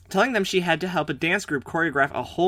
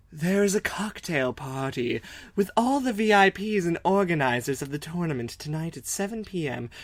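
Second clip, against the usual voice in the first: rich woman voice; 4 dB quieter than usual. Acted. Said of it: "And the voice I gave her".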